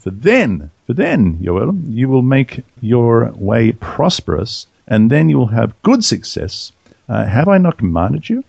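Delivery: measured, formal reading of the Bible passage; scripture reading. Acted. Reading Joshua aloud to the podcast listeners, formal scripture reading. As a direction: read it out like a lector at the lectern.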